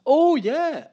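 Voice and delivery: surfer dude voice. Pretend. Squeaky surfer answer.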